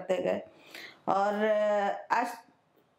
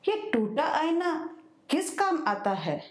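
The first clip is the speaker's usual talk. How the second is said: higher-pitched, lightly astonished poetic question; mildly puzzled question; 5 semitones higher than usual. Acted. Poet asking a young street seller about his broken mirror, mildly surprised. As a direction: ask it in recital style with a touch of wonder. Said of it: "हैरान सी मैंने पूछा".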